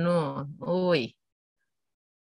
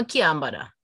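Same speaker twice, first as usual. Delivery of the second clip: Kiyan bada said lower, Jamaican patois; patois phrase; 5 semitones lower than usual. Shown as a demonstration. Translating into Jamaican patois, lower.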